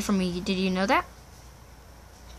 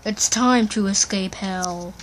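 slow, low, weighty delivery; dramatic announcement; 4 semitones lower than usual. Pretend. Boy announcing the escape, slow dramatic voice. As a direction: stretch it out like a trailer line.

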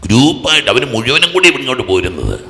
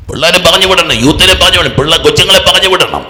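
raised, high, loud exhortation; insistent urging; 8 semitones higher, 7 dB louder than usual. Real, not acted. Preacher tells parents to send children to retreat, insistent urging. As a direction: drive each repeated phrase home.

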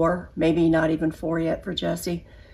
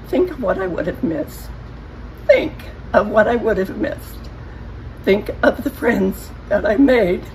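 teary. Real, not acted. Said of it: "Sorry, I'm a teary person".

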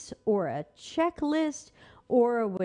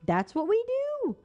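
gleeful Facebook; 5 semitones higher than usual. Retold or imitated. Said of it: "Facebook is like".

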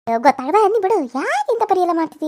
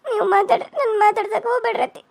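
crying; 3 semitones higher than usual. Acted. Daughter-in-law repeats her plea, weaker, weight on ಮಾತಾಡ್ರಿ. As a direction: repeat it as the voice falls away. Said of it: "ಅತ್ಕೊಂತ ಹೊಂಟಿದಿ".

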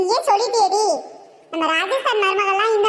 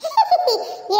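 high-pitched giggle; teasing giggle; 7 semitones higher than usual. Acted. Teasing the sister-in-law after the family song, high giggle. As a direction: giggle high, falling away.

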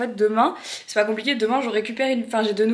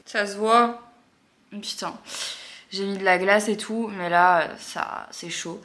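sore swollen mouth; 3 dB quieter, slower than usual. Real, not acted. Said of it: "je vais parler comme ça".

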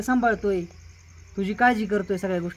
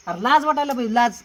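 raised-voice reproach; angry scolding; 4 dB louder than usual. Acted. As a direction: shame them with loud, indignant accusations. Husband scolding wife over affair.

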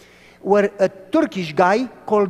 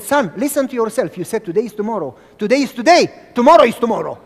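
vendor; 3 semitones higher, 7 dB louder, faster than usual. Retold or imitated. Vendor lecturing the boy.

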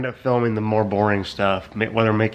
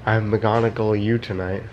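slow, suggestive pun; leering smutty joking; 2 semitones lower than usual. Acted. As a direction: drawl the pun with a smirk. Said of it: "I can't even say it".

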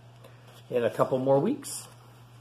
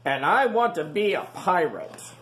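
put-on eager young pig; 4 semitones higher, 3 dB louder than usual. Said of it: "said Rufus".

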